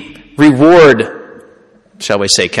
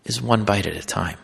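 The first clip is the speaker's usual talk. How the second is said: quiet reveal; 2 semitones lower, 5 dB quieter than usual. Retold or imitated. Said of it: "And I finally say".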